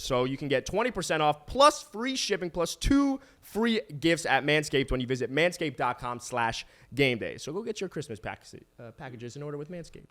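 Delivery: sponsor sign-off, stretching the offer then easing down; podcast ad read. Real, not acted. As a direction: wrap up the ad with the deal and web address. Closes the sponsor segment.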